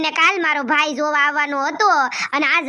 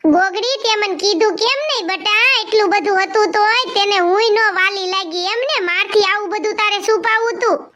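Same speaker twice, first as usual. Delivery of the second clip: lightly voiced older relative, higher and reproachful; hurt elder; 4 semitones higher than usual. A grandmother scolding Gogdi for hiding it, hurt and reproachful. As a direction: ask why she was kept in the dark.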